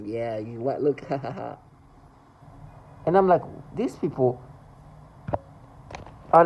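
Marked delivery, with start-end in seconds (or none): 0.0-1.6 low imitated laughter; mock laughing. Parents laughing as the baby runs, mock laughing. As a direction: imitate someone laughing at a target. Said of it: "they're laughing when they see".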